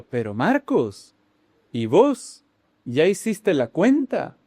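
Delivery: slow, drawn-out attempt at an Argentine accent. Shown as a demonstration. Brother asking Marcos about money, in amateur Argentine accent. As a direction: try a lilting Argentine accent, stretching the words. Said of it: "en acento argentino debió haber sido".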